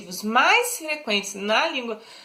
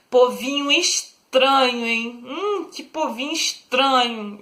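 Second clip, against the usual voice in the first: mild scorn. Shown as a demonstration. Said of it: "tô fazendo deboche".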